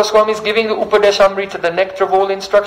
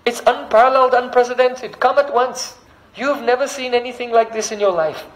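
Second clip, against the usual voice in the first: higher-pitched, urging summons; birds calling; 5 semitones higher than usual. Acted. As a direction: beckon the other birds in a raised voice. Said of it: "they're calling all the other birds".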